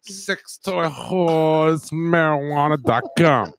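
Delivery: slow, loud announcer tagline; mock ad tagline. Pitching the fake website, in a slow announcer voice. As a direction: announce it like a radio spot.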